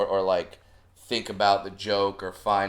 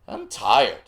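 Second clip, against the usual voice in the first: dad's deadpan; 3 semitones higher, 5 dB louder than usual. Retold or imitated. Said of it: "looks at my sister and I and goes".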